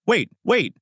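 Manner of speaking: high, frantic wait wait; panicked plea. A narrator's reading. Trapped Suzuki begging Aizawa not to drop it, panicked. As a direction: beg him to stop, quickly.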